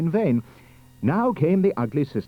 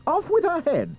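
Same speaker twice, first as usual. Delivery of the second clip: high, forceful princely command; roared order. Acted. Prince condemning the ugly sister, roaring. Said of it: "the prince roared back".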